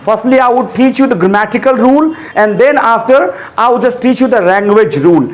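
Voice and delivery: very slow, deliberate English explanation; slow careful English. Shown as a demonstration. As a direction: lay each word down slowly for the class. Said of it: "teacher slows for English". (धीमी, सधी अंग्रेज़ी)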